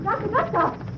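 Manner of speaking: high, drawn-out anxious call. Acted. Amanda calls for the doctor, high and drawn out. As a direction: call his name into the office.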